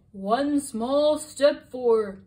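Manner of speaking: slow, loud astronaut over the radio; drawn out like a moon landing broadcast. Acted. Astronaut speaks through helmet radio.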